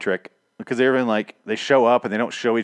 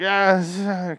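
mock weak groan, drifting off; a half-hearted groan, like she's losing consciousness; woozy imitated groan; pained groan fading out; 10 semitones higher than usual. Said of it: "kinda, like, fading in and out".

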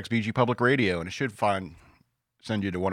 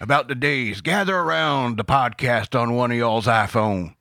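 put-on old prospector; 5 dB louder than usual. Old-timer voice telling tales.

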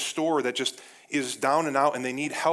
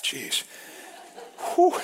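breathless exhale; 2 semitones higher, 3 dB louder than usual. Real, not acted. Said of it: "I'm out of breath".

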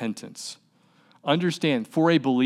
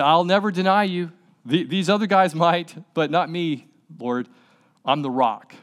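overconfident boast; 3 semitones higher than usual. Retold or imitated. Peter boasting to Jesus, mock overconfident. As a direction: puff up like the proud disciple. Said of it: "He was overconfident".

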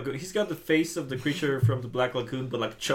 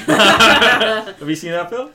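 laughing; 8 semitones higher, 15 dB louder, much slower than usual. Real, not acted. Laughing high loud question.

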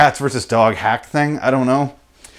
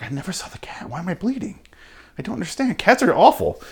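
mock bewildered, whispered then pitched high; a hint of a confused owner; baffled cat owner; 8 semitones higher, 4 dB quieter than usual. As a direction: play the clueless victim, voice climbing.

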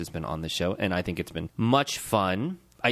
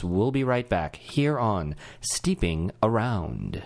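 monotone; 3 semitones lower, much slower than usual. Acted. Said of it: "Mister Monotone".

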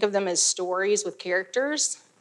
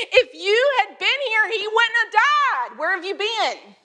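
coming in hot; 11 semitones higher than usual. Retold or imitated. Mary confronting Jesus, hot accusing high voice. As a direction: fire it at him, coming in hot. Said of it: "girl coming in hot".

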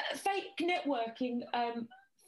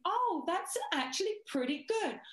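higher, swooping retold praise; pleasantly surprised encouragement, pitched up; impressed praise; 5 semitones higher than usual. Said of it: "just by going".

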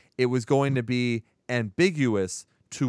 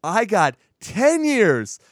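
hammed-up fed-up teenager, half laughing; mock teen rant; 4 semitones higher, 4 dB louder than usual. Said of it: "he's like".

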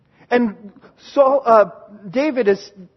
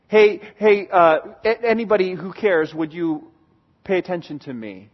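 mock hesitant plea, dwindling away; half-hearted call; 4 semitones lower than usual. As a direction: call out feebly to whoever might care. Mimics unsure call to anyone.

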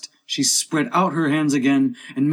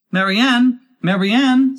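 high, loud call from outside; imperious high-pitched summons; 12 semitones higher, 7 dB louder, slower than usual. A narrator's reading. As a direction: shout for the servant. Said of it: "she heard a voice outside".

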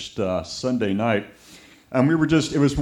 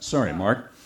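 ordinary delivery

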